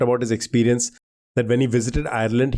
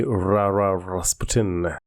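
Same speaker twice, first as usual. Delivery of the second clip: slow, drawn-out Ra Ra Rasputin; a band's song quote; 5 semitones lower, much slower than usual. Retold or imitated. Contestant answering with the song's hook, slow song quote. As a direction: draw it out like the song hook. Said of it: "Thank you, the band".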